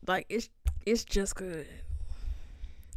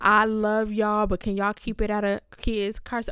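mock pleading; 5 dB louder than usual. Mocking quote of complainers.

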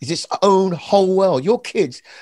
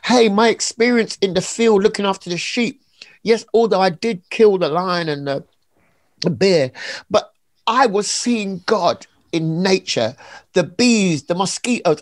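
David voiced lightly; 4 semitones higher than usual. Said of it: "This is David going".

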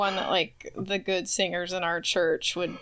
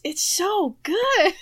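laughing; 9 semitones higher, 3 dB louder, slower than usual. Real, not acted. Gushing about the song.

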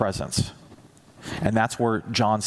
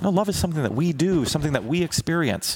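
objecting Greek; 5 semitones higher than usual. Retold or imitated.

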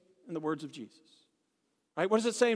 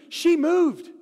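punch line; 8 semitones higher, 8 dB louder than usual. Real, not acted. Punchline of driving story.

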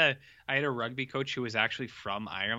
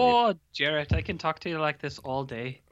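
put-on Irish accent. Co-host showing off to Jarrett, put-on Irish accent. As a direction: chat away in a mock Irish accent. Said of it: "it's also my Irish accent".

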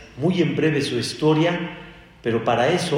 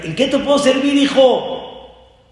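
put-on much higher, louder gentle old sage; master asking; 11 semitones higher, 8 dB louder than usual. The Rosh Yeshiva greets the newcomer, much higher. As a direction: welcome the stranger warmly. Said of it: "Le dijo Rabbi Yohanan ben Zakkai".

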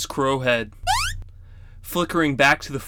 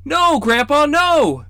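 high pleading protest; children crying out; 13 semitones higher, 6 dB louder, slower than usual. A narrator's reading. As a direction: beg grandpa not to tell. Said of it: "cried in unison".

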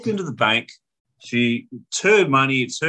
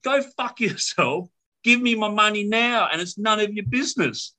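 higher-pitched angry rant at usual volume; retold furious tirade; mock yelling mum; 5 semitones higher than usual. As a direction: rail at them like a fed-up mother. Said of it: "By this time I'm yelling".

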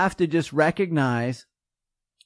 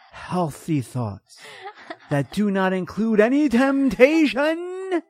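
mock holier-than-thou. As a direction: play a smug self-righteous health guru. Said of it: "imagine if I were to say".

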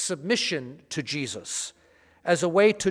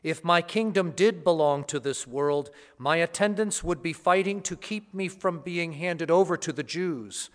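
Gospel reading. Acted. Gospel proclamation at Mass.

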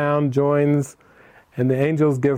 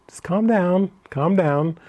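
soothing, drawn-out "calm down", pitched up; 4 semitones higher than usual. Retold or imitated. Speaker calms upset friend over tea, soothing. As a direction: gently talk someone down. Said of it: "calm her down a little bit".

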